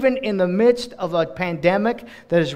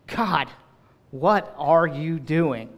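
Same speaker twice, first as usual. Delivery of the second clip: slow searching question; much slower than usual. Acted. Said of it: "we say it".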